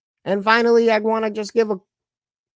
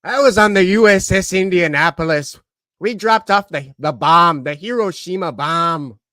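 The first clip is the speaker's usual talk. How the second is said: gruff sea-dog storyteller, loud at first; low, forceful war-story impression; Quint; 4 semitones lower, 5 dB louder than usual. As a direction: open big, then settle lower. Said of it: "my best impersonation of Quint".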